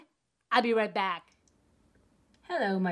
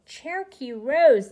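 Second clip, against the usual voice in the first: loud, slow, triumphant; excited shout; 3 semitones higher, 11 dB louder than usual. Real, not acted. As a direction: belt out the winner's name. Confirming the winner.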